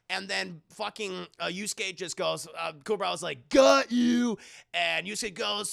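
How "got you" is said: loud "got you" shout; spring the trap with a yell; triumphant shout. Retold or imitated. Kuwabara ambushing the goblin boy, loud shout.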